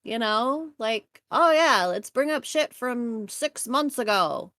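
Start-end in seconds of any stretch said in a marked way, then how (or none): 1.3-4.5 reporter voice. Retold or imitated. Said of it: "I like that voice".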